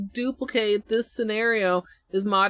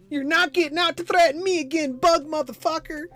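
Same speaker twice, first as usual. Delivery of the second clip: higher mocking taunt at the enemy; cocky higher jeer; 6 semitones higher than usual. Real, not acted. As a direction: gloat over the bug.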